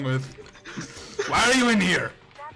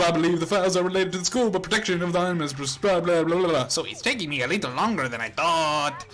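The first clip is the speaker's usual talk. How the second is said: AI character voice. Acted. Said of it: "do your best to sound like a computer".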